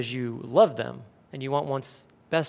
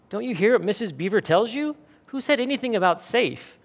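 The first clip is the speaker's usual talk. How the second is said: higher, mildly indignant storybook retort; 6 semitones higher than usual. A narrator's reading. Mister Beaver rebuking Lucy for asking about safety, mildly indignant. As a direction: scold with rising exasperation.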